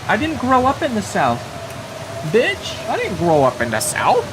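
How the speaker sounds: high-pitched, incredulous protest; exaggerated offended squeal; mock outrage. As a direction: protest in hammed-up disbelief, pitch jumping up.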